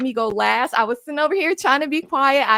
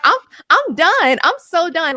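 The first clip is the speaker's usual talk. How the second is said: louder, slower and higher, done with it all; fed-up outburst; 3 semitones higher, 5 dB louder, slower than usual. Real, not acted. To the podcast panel about Alabama's loss, fed-up outburst. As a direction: blurt out that you've had enough. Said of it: "I started getting mad".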